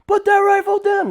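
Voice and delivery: loud high commanding shout; retold police command yelled; officer shouting. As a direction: bark the order at the suspect. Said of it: "he's like".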